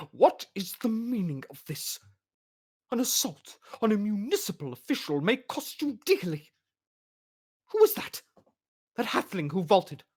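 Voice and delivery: high, indignant official; pompous demand. Acted.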